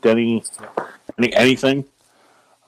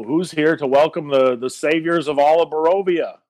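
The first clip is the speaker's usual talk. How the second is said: a light in-character bellow; mild yell; 5 semitones higher than usual. Acted.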